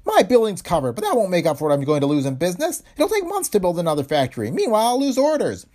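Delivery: high, loud accusing shout; violent anger. A narrator's reading. Owner blaming the insurance president, furious high shout. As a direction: lash out at him, pitch high throughout. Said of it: "Heron turned on the newcomer with angry violence".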